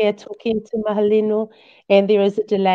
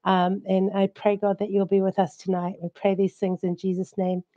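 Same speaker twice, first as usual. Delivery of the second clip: prayer. Acted. Host leads opening prayer.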